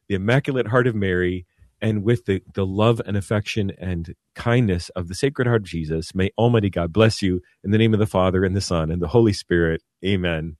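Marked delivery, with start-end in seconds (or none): 6.1-10.6 priestly blessing. Real, not acted. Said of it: "close us with a blessing".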